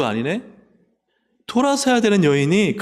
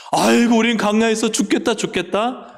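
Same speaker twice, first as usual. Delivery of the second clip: higher and louder moaning complaint; mock wailing grumble; 8 semitones higher, 3 dB louder than usual. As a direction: whine like the grumbling Israelites. Grumbling Israelites imitated.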